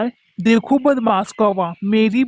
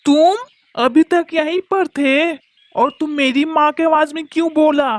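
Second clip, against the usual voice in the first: shocked outburst; 5 semitones higher than usual. Acted. Daughter sees the crow inside.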